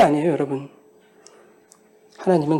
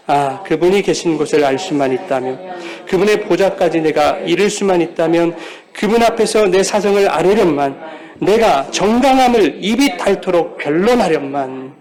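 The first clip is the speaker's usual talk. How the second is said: scripture reading; 4 dB louder than usual. Acted. Pastor reading Job's plea aloud to the congregation, earnest. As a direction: read Job's plea together.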